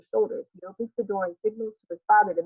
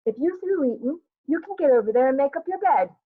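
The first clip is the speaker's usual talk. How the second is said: stern mother; 6 semitones higher, 4 dB louder than usual. Acted. Acted mother ordering sulking son.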